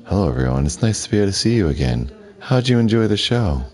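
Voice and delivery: high, quick and chirpy host voice; bubbly TV hostess. Acted. TV hostess welcoming players after the show, chirpy high voice. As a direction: greet the audience like a perky show host.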